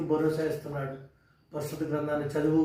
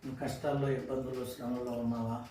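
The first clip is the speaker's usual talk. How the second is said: tender preacher's consolation; gentle consoling sermon; 2 semitones lower, 3 dB quieter than usual. Acted. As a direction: speak softly to a troubled listener. Soft consoling sermon opening.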